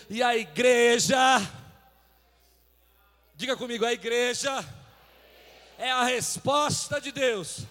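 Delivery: loud proclamation with drawn-out key words; emphatic preaching. Real, not acted. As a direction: proclaim it to the whole congregation, pausing for response. (pregação enfática, em voz alta)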